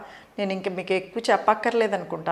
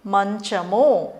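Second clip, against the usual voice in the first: slow teacher model; much slower than usual. Shown as a demonstration. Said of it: "మా అంటే ఏం కనిపిస్తుంది".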